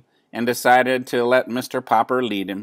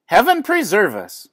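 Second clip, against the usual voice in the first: much higher, prim gasp; shocked neighbor lady; 9 semitones higher, 3 dB louder than usual. A narrator's reading. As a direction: clutch the groceries and gasp. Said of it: "said Missus Callahan".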